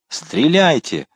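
high, urgent repeated command; shouting. A narrator's reading. Mordaunt riding back to have the prisoners shot, shouting. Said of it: "кричал Мордаунд".

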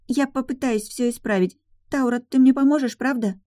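put-on high pleading child voice; little girl. A narrator's reading. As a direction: coax the nanny like a little girl. Daughter asks nanny. (высокий детский просящий голос)

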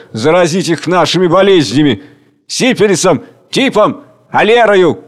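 desperate crowd shouting plans; shouted outbursts. Acted. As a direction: shout wild ideas. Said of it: "Отдельные вскрики".

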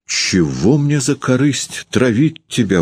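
high, slow coaxing plea; coaxing wife pleading her innocence; persuading. Acted. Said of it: "убеждала Варвара".

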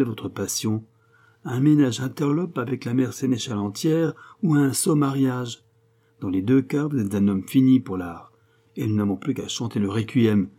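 lightly voiced sarcastic mentor; a touch of animated mockery; sarcastic friend. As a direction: lecture a friend with mild scorn.

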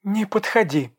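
high, loud warning cry; shouting. A narrator's reading. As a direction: keep him away with a shout. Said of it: "закричала Даша". (высокий громкий крик)

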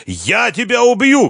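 high, loud, slow death threat; furious boss yelling at Renat; shout. A narrator's reading. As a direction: scream the threat. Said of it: "крикнул".

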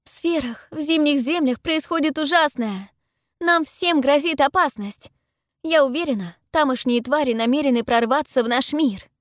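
high, loud, impassioned appeal; desperate high-pitched plea to be believed; urgent warning. A narrator's reading. Heroine urgently warns the gathering.

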